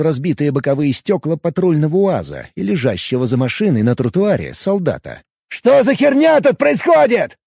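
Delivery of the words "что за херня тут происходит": loud, slow shocked exclamation; exclaiming. Acted. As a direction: blurt it out loud and high. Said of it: "воскликнул он".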